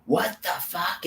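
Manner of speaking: lightly voiced baffled brute; mock outrage. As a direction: act out the invaders' shock. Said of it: "storm into these fucking pyramids and go".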